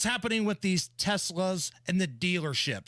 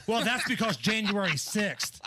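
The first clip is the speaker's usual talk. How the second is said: mock answer. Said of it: "I could say".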